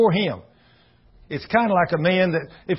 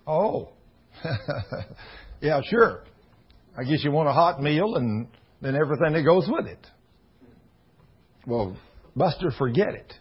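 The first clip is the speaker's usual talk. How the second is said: dismissive wife; 4 dB quieter than usual. Retold or imitated. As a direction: shut the husband down flatly. Wife brushes off husband.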